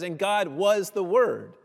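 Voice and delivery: "And God was the Word" slowed, "God" set first; slow literal reading. Shown as a demonstration. Preacher giving the literal Greek order, slow and deliberate. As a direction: read it out word by word, slowly. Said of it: "If we were to translate it literally".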